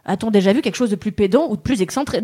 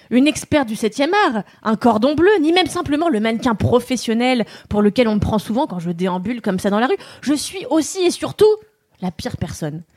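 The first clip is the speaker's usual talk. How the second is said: declaiming. Acted. Declaims her chronicle.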